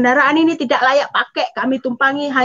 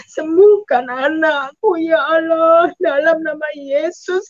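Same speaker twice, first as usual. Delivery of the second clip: sobbing plea, slow; mother praying in tears for her dying baby, crying; crying prayer; 3 semitones higher, slower than usual. Retold or imitated. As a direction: beg through tears for the child's healing. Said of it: "Saya menangis".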